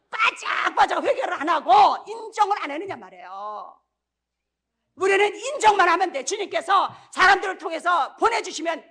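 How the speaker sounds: loud, half-laughing rebuke; laughing shout. Real, not acted. Preacher scolding the congregation, loud and laughing.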